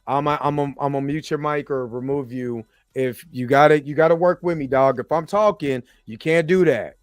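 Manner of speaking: calm turning angry. Real, not acted. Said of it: "trying to be patient".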